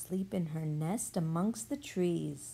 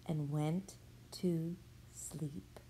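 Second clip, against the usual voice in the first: slow, soft whisper; whispering over a crib; 7 dB quieter, much slower than usual. A narrator's reading. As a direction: whisper the child to sleep. Story ends, zebra falls asleep.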